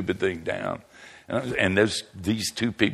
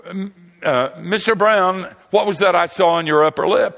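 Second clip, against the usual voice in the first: disapproving woman; 11 semitones higher, 6 dB louder than usual. Retold or imitated. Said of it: "This woman said".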